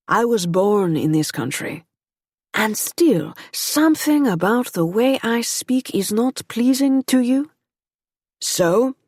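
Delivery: put-on a lightly French-accented gentleman, growing stronger. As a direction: let the French accent deepen as he goes. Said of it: "in a French accent that deepened as he spoke".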